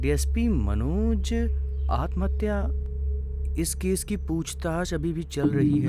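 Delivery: slow, piece-by-piece reading from a paper; reading news aloud. Acted. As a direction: read it out slowly, pausing between phrases. Reads the newspaper report aloud. (धीरे-धीरे अख़बार पढ़ते हुए)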